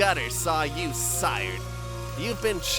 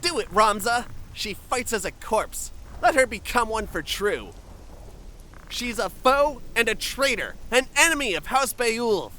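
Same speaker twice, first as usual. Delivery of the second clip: forceful, loud demand building to a shout; angry urging; 4 dB louder than usual. Acted. Urging a comrade to kill the captive, angry and insistent. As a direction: press harder until you are shouting the order.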